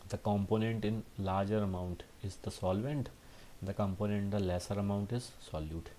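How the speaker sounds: dictation pace, each word spaced out; slow textbook reading. Acted. Teacher reading the definition aloud slowly for students to note down. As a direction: read the definition slowly so students can copy it.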